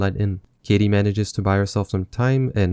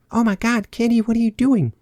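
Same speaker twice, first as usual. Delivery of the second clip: high, shocked put-on voice; shocked character voice; 13 semitones higher than usual. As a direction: gasp it out in a high voice. Voicing shocked churchgoers.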